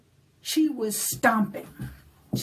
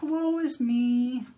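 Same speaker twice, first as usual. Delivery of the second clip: woeful leprechaun; 4 semitones higher than usual. Acted. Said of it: "And he said".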